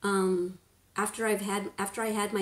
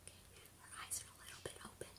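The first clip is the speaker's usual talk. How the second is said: whisper; 25 dB quieter, much faster than usual. Real, not acted. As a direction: hush it, don't wake her. Baby falling asleep nearby.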